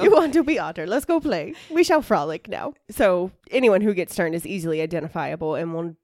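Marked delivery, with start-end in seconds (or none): 0.0-2.8 high, loud playful critter; silly excited animal voice; frolicking otter. Acted. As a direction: invite them to play, hammed-up. Joins in the otter impression.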